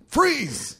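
high yelled freeze, cop style; shouted command. Retold or imitated. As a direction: yell it like a cop. Cops yell it again.

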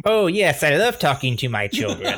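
high strange alien voice; alien Gargalax. Acted. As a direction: play the alien dad greeting. Alien dad voice continues.

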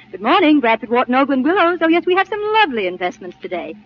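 a lightly sweetened receptionist's phone greeting; soothing telephone voice. Shown as a demonstration. Applicant demonstrates her phone manner to the boss, mild soothing receptionist voice. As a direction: show off a gentle, pleasant switchboard voice. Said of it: "I have a very soothing telephone voice".

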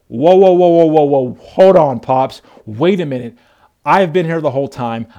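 loud self-righteous protest; mock-indignant big brother complaining. Older brother protesting to his father, loudly indignant. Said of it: "self-righteous and indignant".

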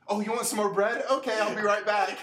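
high, bright customer-service voice; mock cheerful server. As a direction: put on the server smile. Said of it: "server voice to customer".

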